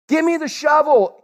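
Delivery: a hint of cocky young self; self-reliant demand. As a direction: grab the shovel like you can earn heaven. Voicing his old theology.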